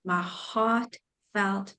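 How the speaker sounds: choked up. Real, not acted. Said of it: "why am I getting emotional".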